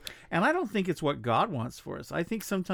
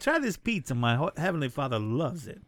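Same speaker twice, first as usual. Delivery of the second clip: put-on Brooklyn accent. Jesus in Brooklyn joke.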